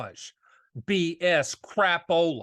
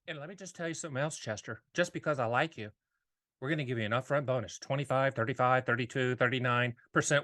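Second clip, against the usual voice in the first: smooth salesman voice; 5 semitones lower, 5 dB quieter, faster than usual. Acted. Agent voiced pitching to Chester.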